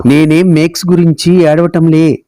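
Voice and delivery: put-on mild, understated childish protest; indignant cry. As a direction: protest with a touch of hurt indignation. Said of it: "ఉక్రోషంగా అరిచినట్టు అన్నాడు శుభం". (కొద్దిపాటి ఉక్రోషంతో)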